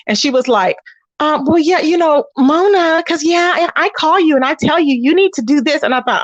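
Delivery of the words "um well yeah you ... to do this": a touch of a half-awake woman; just woke up. Retold or imitated. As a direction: imitate a sleepy, dazed caller. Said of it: "she sounded like she had just woke up".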